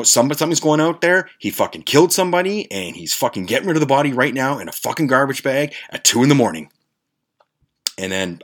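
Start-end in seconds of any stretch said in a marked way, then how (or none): 0.0-6.7 high-pitched, frantic report of a murder; panicked. Retold or imitated. Warning friends about the body in the bag, frantic. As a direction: rattle it off, horrified, to friends. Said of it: "I told these guys that".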